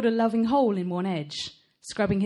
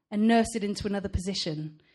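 usual speaking voice

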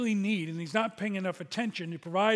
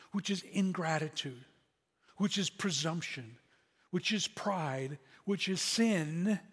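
slowing build; slower than usual. Acted. Building list to climax.

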